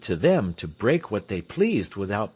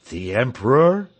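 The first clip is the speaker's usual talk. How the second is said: startled question; 7 dB louder than usual. Acted. Crowd asks about the news.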